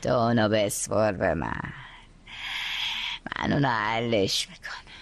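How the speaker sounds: whispered scheming promise. Acted. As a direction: hush it like a secret plan. Scheming mother, low voice.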